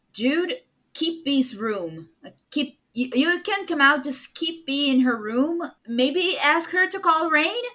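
calling out insistently in character. Acted. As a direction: raise your voice to reassure and instruct. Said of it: "raises his voice at them".

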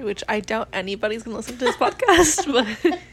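real laughter breaking into the words; laughing. Real, not acted. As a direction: crack up while saying it. Laughing at their own podcast's reach.

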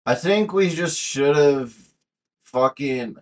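put-on Irish lilt; Irish accent. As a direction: try out an Irish accent, drawn out. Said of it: "do your best Irish accent".

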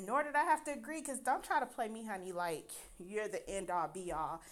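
a touch of bitchy attitude; sassy comeback. Retold or imitated. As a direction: put someone in their place. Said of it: "the bitch in me came out".

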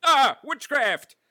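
high, slow cackling witch cry. Pretend. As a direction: shriek it like a storybook witch. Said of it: "Is that good?".

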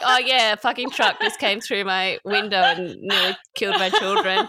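breezy, laughing mock nonchalance; ironic aside. Host mocking her own casual announcement, laughing, breezy. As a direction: toss off the horror with a laugh. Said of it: "And then I'm like".

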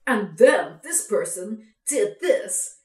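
slow, put-on YouTube narrator voice; fake narrator voice. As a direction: drag it out like a phony video essay narrator. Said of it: "this person was putting on".

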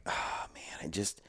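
breathy whisper, almost no voice. Retold or imitated. Hunter whispering to himself forty yards from a bedded buck. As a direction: whisper so the buck can't hear.

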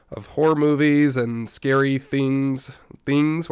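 slow, drawn-out spooky delivery; spooky drawl. Shown as a demonstration. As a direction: stretch it like a horror trailer. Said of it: "why do they say it like that?".

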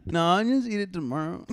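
speaking through laughter; words bubbling with laughs; laughing. Real, not acted. Laugh heard on line.

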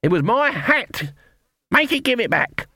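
furious witch shouting at the alligator; outraged shout. A narrator's reading. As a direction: bellow about the stolen hat. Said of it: "something to shout about".

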